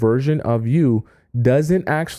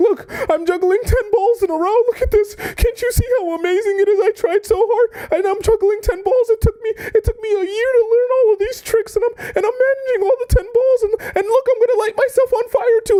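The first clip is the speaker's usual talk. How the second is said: very high, fake tearful, weepy pleading tone. Acting out a desperate suitor juggling to win someone over: mock crying while pleading. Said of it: "I'm, like, crying. I'm like".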